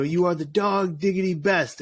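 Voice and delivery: put-on a speaker making the chant goofy for kids, lightly; a little goofy. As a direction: ham it up for the kids. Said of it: "I kinda make it a little goofy".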